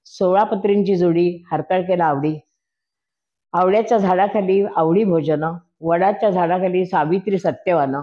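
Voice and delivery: rhythmic sing-song recitation of a rhyming verse; ukhana recital. Acted. Wife recites ukhana naming her husband, rhythmic sing-song. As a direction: chant each couplet with a steady lilt.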